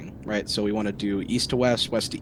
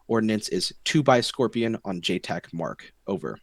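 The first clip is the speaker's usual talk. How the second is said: calm radio call for fire. Shown as a demonstration. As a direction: read the call for fire over comms. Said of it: "So the full call would sound something like this".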